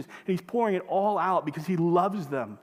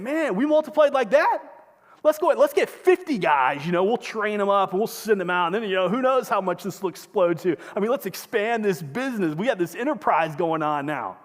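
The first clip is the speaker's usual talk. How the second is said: hyped-up CEO; 3 semitones higher, 4 dB louder than usual. Retold or imitated. CEO pitches expanding the business, loud and excited. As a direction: sell the expansion like a hyped executive.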